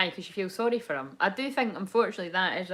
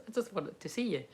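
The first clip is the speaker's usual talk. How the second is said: soft, understated confession; intensity taken out; 10 dB quieter than usual. Retold or imitated. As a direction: say it lightly and quietly. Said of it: "takes the intensity out of".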